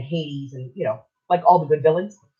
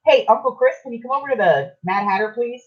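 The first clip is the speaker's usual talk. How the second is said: lightly imitated caller, higher pitch; phone plea; 7 semitones higher than usual. Son-in-law phoning Uncle Chris for help, lightly imitated plea. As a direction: mimic someone calling to ask a favor.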